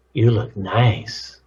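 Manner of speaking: slow, with "nice" drawn out and falling; different message. Shown as a demonstration. Showing one compliment's different messages, "nice" drawn out. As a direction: stretch "nice" slowly at the end. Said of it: "the same words have different messages".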